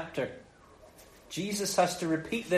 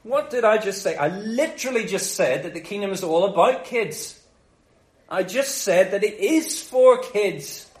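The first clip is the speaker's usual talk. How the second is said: indignant; 2 semitones higher than usual. Retold or imitated. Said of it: "he's indignant by this stage".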